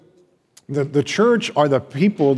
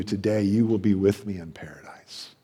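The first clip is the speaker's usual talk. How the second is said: tender whispered promise; 5 semitones lower, 5 dB quieter than usual. Acted. Jesus' promise to the thief.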